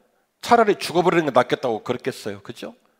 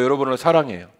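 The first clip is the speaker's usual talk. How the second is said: ordinary delivery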